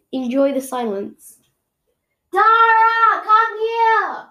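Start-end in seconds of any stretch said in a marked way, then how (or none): 2.3-4.3 sung-out call across the house; singsong high call. Real, not acted. Calling brother from another room.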